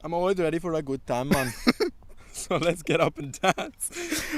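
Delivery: put-on Caribbean accent. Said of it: "in a Caribbean accent".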